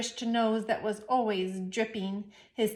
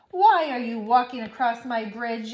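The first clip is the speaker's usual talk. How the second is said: yelling troll; 5 dB louder than usual. Acted. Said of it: "yelled the hideous".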